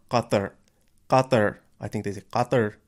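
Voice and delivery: Qatar, the first sound made far back like Arabic q; Qatar said the way locals say it. Shown as a demonstration. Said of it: "they say it with a really back k sound".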